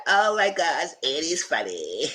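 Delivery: high gushing voice, slowing on the name; high-pitched charmed squeal; delighted gush. Retold or imitated. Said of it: "She said".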